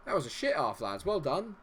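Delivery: sarcastic team talk. Real, not acted. Sarcastic half-time team talk.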